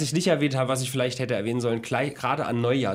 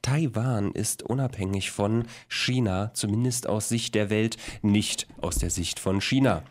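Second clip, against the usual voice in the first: radio voice. Acted. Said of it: "meine Radiostimme einsetzen".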